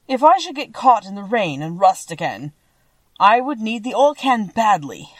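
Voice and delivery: a hint of a tin man's earnest worry. A narrator's reading. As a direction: speak up firmly as the tin character. Voices the Tin Woodman.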